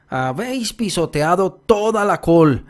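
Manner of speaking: put-on high, slow, strident old woman's scolding; strident shouting. A narrator's reading. Grandmother driving geese from the garden, strident shouting. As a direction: screech it out like a cursing granny. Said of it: "escucharon una estridente voz".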